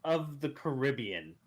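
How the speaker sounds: laughing. Retold or imitated. Mocking the new guy, laughing.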